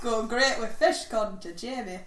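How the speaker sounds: hammed-up northern English accent. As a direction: play a cheeky northern pub voice. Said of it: "I'm doing a northern accent".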